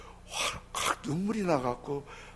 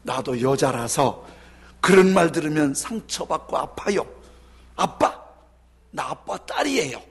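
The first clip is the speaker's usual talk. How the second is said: tearful retort; 4 dB louder than usual. Retold or imitated. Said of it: "울먹울먹하면서 아빠에 대들었어요".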